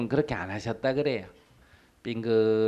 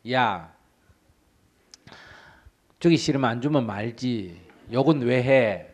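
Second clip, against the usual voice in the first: louder mock retort, indignant; 5 dB louder than usual. Monk imagines snapping back at the priest, indignant. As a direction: snap back at the rude priest.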